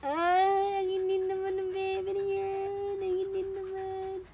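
slow drawn-out cooing to a pet. Real, not acted. Slow baby talk to dog. (malambing na baby talk)

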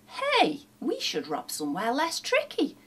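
high-pitched burst of a new idea; excited cry. A narrator's reading. Sam proposes an easier target to his partner, excited cry. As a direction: cry out with a sudden bright idea. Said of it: "Sam cried".

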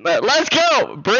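loud, high celebratory shout; hyped cheer. Real, not acted. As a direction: cheer the donor on at full voice. Cheering the donor.

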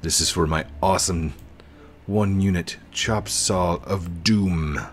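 playfully grand, stretching the last words; mock-grand announcement. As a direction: announce it like a silly epic title. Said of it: "I'm just kidding".

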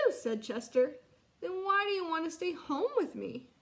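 put-on lively read-aloud for children; story narration. Teacher reads story aloud.

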